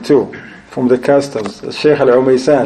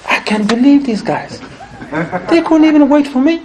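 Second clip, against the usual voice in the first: laughing retold disbelief; 11 semitones higher than usual. Retelling guest's shock, laughing.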